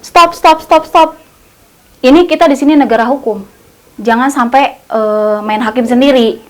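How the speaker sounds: a lightly acted firm officer shouting stop; mock police order. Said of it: "yang satunya lagi ngomongnya kayak gini".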